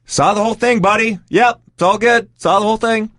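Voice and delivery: high, over-bright reassurance; mock agreeable placating. Acts out humouring the enraged fighter.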